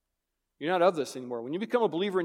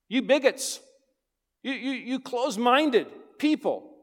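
mock accusing critic; 7 semitones higher, 5 dB louder than usual. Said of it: "That's why Jesus is so controversial".

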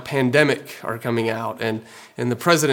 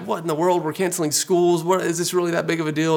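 doubting scoff, pitched up; cynical; 4 semitones higher than usual. Retold or imitated. Pastor mocking his own cynical reaction, scoffing. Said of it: "I respond kind of cynically".

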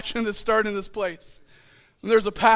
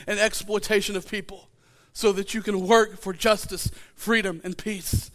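prayer reading. Real, not acted. Pastor reading the Franciscan Blessing to his church. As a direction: let each phrase land gently.

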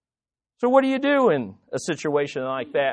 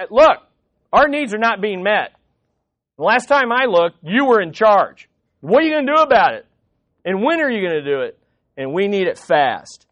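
demanding. Acted. Grumbling people confront the one in charge, demanding. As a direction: press the leader for action, impatiently. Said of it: "they're dem".

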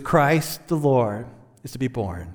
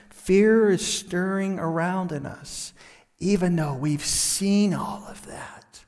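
fading to a whisper; 5 dB quieter than usual. Acted. Solemn turn to inner fear.

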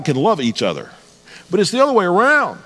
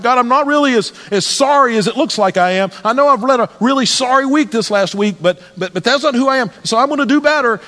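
guilty pleading prayer; 6 semitones higher than usual. Retold or imitated. Voicing a guilty believer praying.

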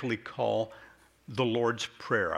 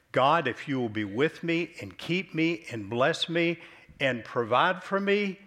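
higher, earnest pleading to God; retold bargaining prayer; 5 semitones higher, 4 dB louder than usual. Preacher retelling Jacob bargaining with God, raised plea. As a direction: lift the voice like a man bargaining with heaven.

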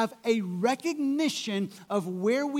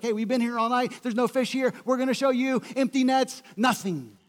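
spiteful; 3 semitones higher than usual. Retold or imitated. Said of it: "perhaps with a little spitefulness".

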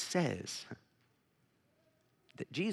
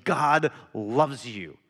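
slow, gentle God loves you; 3 dB louder, much slower than usual. Retold or imitated. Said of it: "and I'm saying".

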